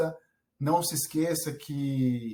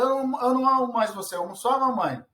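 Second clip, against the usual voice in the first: put-on sulky child; 7 semitones higher, faster than usual. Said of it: "ele fala".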